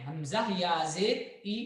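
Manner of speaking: हमजा या जेर ई said quickly with a short ई; wrong short kasra. Shown as a demonstration. Teacher repeating the wrong unstretched reading. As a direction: clip the final ई in हमजा या जेर ई. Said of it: "नहीं बोलेंगे".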